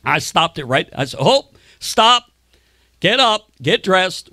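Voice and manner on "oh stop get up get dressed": loud commanding order, higher; stern shout. Retold or imitated. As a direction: bark the order at the tenant. Catches tenant on couch.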